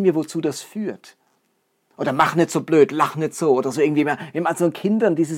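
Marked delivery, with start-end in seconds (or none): 2.1-3.5 a touch of a scolding parent, louder; mock-stern telling a child off.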